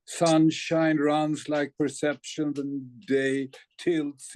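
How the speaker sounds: slow, measured poem recital; deliberate verse with drawn-out words; poetry reading. Acted. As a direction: recite each line deliberately, leaving pauses between phrases. Reads own poem aloud.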